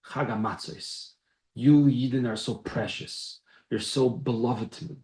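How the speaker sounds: soft, slow, loving words to His people; tender voice of God. Acted. God tenderly praising His beloved people, soft and slow. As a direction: speak low and tender, like a father cherishing his children.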